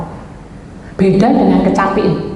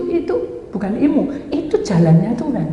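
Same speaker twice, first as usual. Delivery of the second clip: ordinary talk, nothing marked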